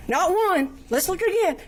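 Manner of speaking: pushing through a sob; voice breaking. Real, not acted. Victim telling the court of two shootings, tearful.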